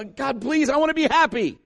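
high-pitched, mock-desperate plea; pleading prayer. Preacher voicing someone praying for happiness, high plea. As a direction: beg God like you badly want it. Voices a person pleading with God.

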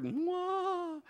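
high mock whoop of the drop; mock falling whoop. Pastor imitating his bungee drop with a high whoop. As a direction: squeal like you're dropping.

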